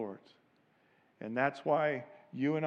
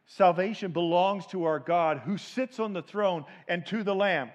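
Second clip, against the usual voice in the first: modelling the shout; 4 semitones higher, 5 dB louder than usual. Shown as a demonstration. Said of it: "You're gonna be shouting that same phrase".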